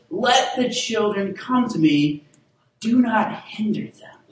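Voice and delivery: slow, weighty, fading to a whisper at the end; emphatic quote. Shown as a demonstration. Pastor highlighting the key verse, slow and hushed. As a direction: lay the key verse down slowly. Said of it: "the sermon in the sentence".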